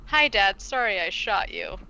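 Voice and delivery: imitating a deadpan daughter; matter-of-fact mock apology. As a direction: quote it with deadpan understatement. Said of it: "like, deadpan delivery".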